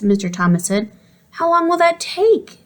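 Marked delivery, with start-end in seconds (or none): 1.3-2.6 high, slow whine; whiny. A narrator's reading. Little girl whining about the broken TV. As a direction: whine it like a bored kid. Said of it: "Dealey asked in a whiny voice".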